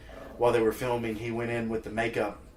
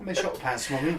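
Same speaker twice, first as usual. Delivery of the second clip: raised mock-British child; echoed British accent; 4 semitones higher than usual. Guest echoing the host's accent, lightly mock British.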